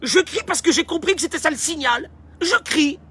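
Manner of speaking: high-pitched infant reasoning; baby explaining. Acted. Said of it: "Et puis il dit".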